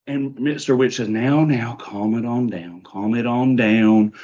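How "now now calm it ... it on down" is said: drawn-out, gently placating; soothing. Acted. Mister Witch settling Mister Light, slow soothing tone. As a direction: ease the upset partner down, stretching the last words. Partner soothing an upset associate.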